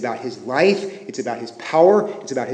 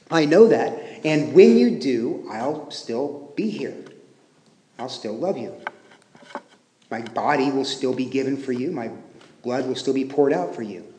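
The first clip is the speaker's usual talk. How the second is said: quiet, lower-pitched promise of steadfast love; tender reassurance; 3 semitones lower, 4 dB quieter than usual. Acted. Jesus reassures Peter despite coming failure.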